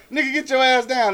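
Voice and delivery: acted scolding. Man showing how he'd check a kid, mock scolding.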